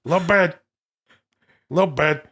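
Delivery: lightly put-on actor impression; catchphrase tried out as a layered impression; Al Pacino doing De Niro. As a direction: mimic a friend's pet phrase, over and over. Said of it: "This is Pacino's impression of De Niro".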